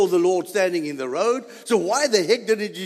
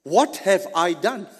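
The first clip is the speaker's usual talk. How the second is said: donkey through laughter. Retold or imitated. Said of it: "the donkey says to me".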